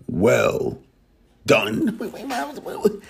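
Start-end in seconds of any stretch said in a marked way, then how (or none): 2.0-3.0 laughing. Real, not acted. Stops himself mid-announcement, laughing.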